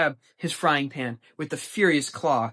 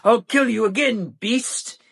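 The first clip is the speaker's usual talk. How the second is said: high, loud battle cry; furious shout; 9 semitones higher, 9 dB louder than usual. A narrator's reading. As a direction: scream it as you charge. Lancelot attacks shouting.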